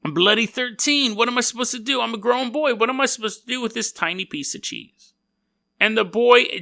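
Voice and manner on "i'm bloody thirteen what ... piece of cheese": indignant mock British. Thirteen-year-old complaining to his friend, higher mock-British whine. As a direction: play the offended British kid a bit high.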